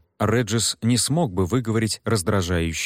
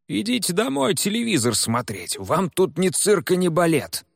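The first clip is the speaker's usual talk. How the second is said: gruff officer; 10 semitones higher than usual. Acted. Officer shooing the crowd away.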